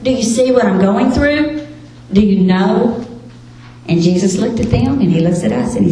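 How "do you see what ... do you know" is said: a touch of pleading in retold questions; lightly acted appeal for someone to care; mild desperate plea. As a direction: cry out to Jesus, understated. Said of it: "you run to Jesus in desperation".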